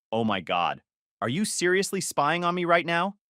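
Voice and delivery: mildly indignant, retold accusation; indignant outburst. Girlfriend caught in the kitchen accusing him of spying, mildly indignant. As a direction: imitate an affronted girlfriend with restrained anger. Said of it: "She went from zero to nuclear in half a second".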